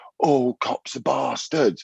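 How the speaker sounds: put-on high, shouted scream. Retelling a conversation about rioters, imitating protesters screaming. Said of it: "one minute they'll be screaming".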